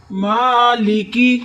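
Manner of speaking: مالکی with thin lam and kaf, slow; light lam and kaf. Shown as a demonstration. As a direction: keep مالکی light, no heavy letters. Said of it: "نہ لام کو موٹا کرنا ہے". (مالکی باریک)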